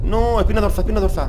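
loud, high urgent call; yelling where to hit; urgent shout. Real, not acted. Aiming at the charging boar.

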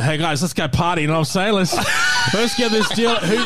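put-on half an hour later, properly drunk. Shown as a demonstration. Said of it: "and then pretty much half an hour later".

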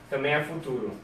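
ordinary delivery

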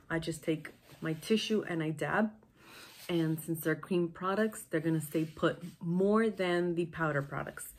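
stuffy blocked-nose voice; nasal voice. Real, not acted. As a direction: speak with a congested nose. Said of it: "sorry about my nasal voice".

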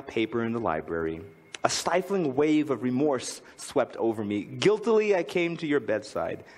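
reading a poem aloud with feeling. Acted. Speaker reading Father Forgets to the audience, heartfelt reading. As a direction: read it as a father's confession to his sleeping son.

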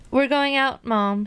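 high call to Mom. Acted. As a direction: call out to a parent in another room. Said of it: "he called".

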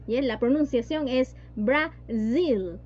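Brasil said slowly, the s as a voiced buzzing z. Shown as a demonstration. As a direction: say Brasil as Brazil with a vibrating z. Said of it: "la Z que está por ahí se vibra". (Brasil con la s sonora y vibrada como z)

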